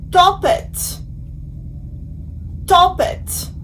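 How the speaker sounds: "Tempête" in French, nasal "tem-", then "pête"; careful French pronunciation. Shown as a demonstration. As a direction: model "Tempête" slowly, nasal first syllable. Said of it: "Now that we have seen the sound O".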